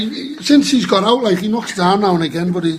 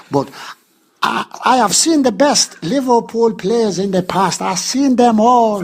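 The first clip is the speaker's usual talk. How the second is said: Nelson impression. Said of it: "Nelson, you're late".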